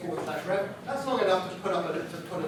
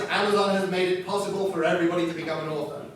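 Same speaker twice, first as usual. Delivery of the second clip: upbeat praise; faster than usual. Shown as a demonstration. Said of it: "The fantastic thing is".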